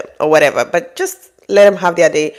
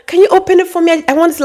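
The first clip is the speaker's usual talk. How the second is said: much higher and louder, squealing with delight; excited; 10 semitones higher, 3 dB louder, much faster than usual. Retold or imitated. Wife thanking her husband for a birthday gift, thrilled. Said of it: "she's so excited".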